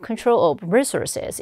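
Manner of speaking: Control of resources with Control stressed on its second syllable. Shown as a demonstration. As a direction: slowly model Control of resources, leaning on TROL. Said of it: "이음절 강세 주시고요". (Control of resources를 이음절 강세로)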